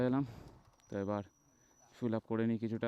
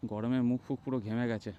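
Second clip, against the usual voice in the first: inside a helmet. Real, not acted. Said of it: "helmet পরে আছি যেহেতু".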